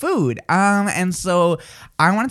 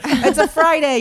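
much higher and louder, laughing through it; laughing mock greeting; 11 semitones higher, 5 dB louder than usual. Host parodying her mix-up, high and laughing. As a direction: giggle out the wrong day. Mocking wrong-day greeting.

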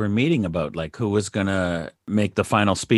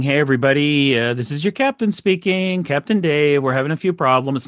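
pilot announcement; 2 semitones higher than usual. Retold or imitated. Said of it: "voice over the P A saying".

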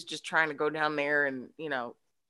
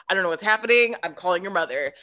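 flustered; 6 dB louder, faster than usual. Retold or imitated. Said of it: "she starts freaking out".

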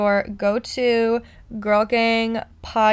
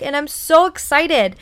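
gushing, a bit higher, can't hold it in; bursting excitement; 5 semitones higher, 4 dB louder than usual. Real, not acted. Host gushing to listeners about the book, excited. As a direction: voice jumps up on so excited. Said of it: "Oh my God, I can't even talk".

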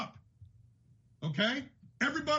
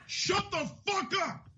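slow, higher and fed up; mad; 5 semitones higher, slower than usual. Real, not acted. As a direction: spit out each word slowly, fed up. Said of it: "Ooh, daddy's mad".

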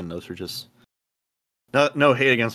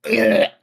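spit take; 14 semitones higher, 9 dB louder than usual. Real, not acted. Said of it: "I just spit water everywhere".

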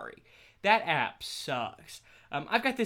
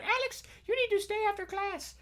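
a hint of a German-accented stern teacher, high. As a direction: scold in a light German accent. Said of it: "she has a very thick German accent".

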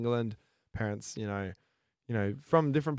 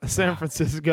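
laughs through the place name, higher and louder; laughing; 5 semitones higher, 5 dB louder than usual. Real, not acted. Teasing cohost about his birthplace, laughing. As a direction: giggle out the tease.

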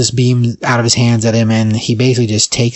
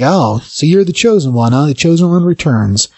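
higher-pitched taunting kid, lightly acted; mock trash talk; 4 semitones higher than usual. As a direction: needle the hero, lightly imitating a cocky kid. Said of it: "starts talking trash to him".

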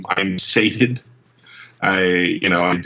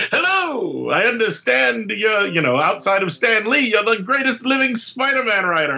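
David Tennant; 13 semitones higher than usual. Retold or imitated. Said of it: "And he's like".

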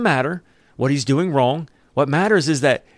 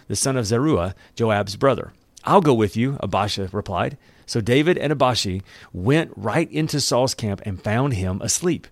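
measured story narration; scripture reading. Acted. Preacher reads a Bible story to the congregation, measured narration. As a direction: read the account aloud, evenly.

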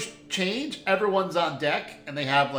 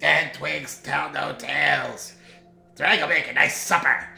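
mock spooky raven; 3 semitones lower than usual. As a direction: retell the raven's creepy threat, half-hamming it. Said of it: "raven comes in and says".

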